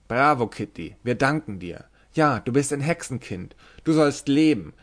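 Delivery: loud, high tavern cheering; rowdy drinkers calling for a song. Acted. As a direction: call out over the din of a drinking table. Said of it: "Ein halbes Dutzend von Stimmen rief durcheinander".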